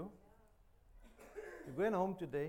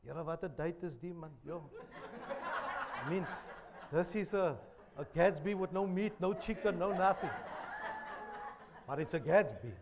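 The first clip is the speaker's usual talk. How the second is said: mock complaining congregant; 6 dB louder than usual. Church complainer about vegetable Gatsby.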